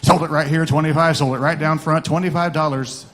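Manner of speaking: rapid rolling auction chant; auctioneer. Acted. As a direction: rattle off bids like an auctioneer.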